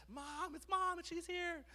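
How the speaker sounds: high, mock kid voice; imitating a child. Child telling dad mom is here, in high mock kid voice. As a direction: squeak it like a little kid.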